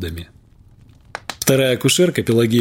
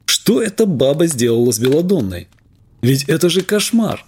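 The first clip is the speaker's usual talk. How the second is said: excited; 3 semitones higher than usual. Acted. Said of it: "заговорил я возбуждённо".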